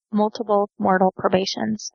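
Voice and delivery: lightly quickened repeat, words linked. Shown as a demonstration. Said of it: "Say that three times fast".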